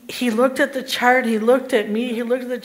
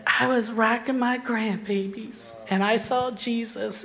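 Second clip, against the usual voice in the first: softer, weakened patient voice; barely able to talk; 6 dB quieter than usual. Retold or imitated. Patient answers the nurse, barely able to talk. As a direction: imitate someone with little strength to speak. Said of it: "I could barely talk 'cause I was like this".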